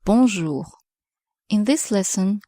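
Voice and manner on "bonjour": "Bonjour" clearly modelled, falling at the end; French bonjour. Shown as a demonstration. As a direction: say "Bonjour" slowly for learners. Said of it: "precisely the word that we are going to learn".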